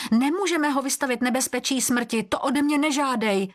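understated outcry; exclaimed protest. A narrator's reading.

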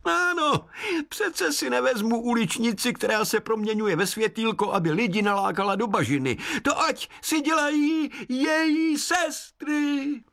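high, odd woodland voice; forest spirit. Acted. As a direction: speak like a kindly sprite. Hejkal speaks.

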